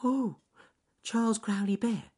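high, downcast rabbit voice; little rabbit, dismayed; Ernest Fluffy Rabbit. A narrator's reading. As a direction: plead in a squeaky bunny voice. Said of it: "said Ernest Fluffy Rabbit".

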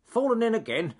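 high, loud cartoon critter crowing; shrill little forest creature jeering; high squeaky animal voice. Small animal laughing at a rabbit in the river, high and loud. Frog comments on splashing rabbit.

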